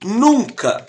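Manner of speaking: pause, then land "nunca" alone; stressed nunca. Shown as a demonstration. Teacher warning students, isolated emphatic "nunca". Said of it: "aqui eu estou dizendo, ó".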